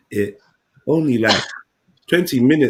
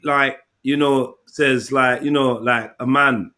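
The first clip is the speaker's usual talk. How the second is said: halting slow mimic; slower than usual. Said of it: "I could smash the way he talks".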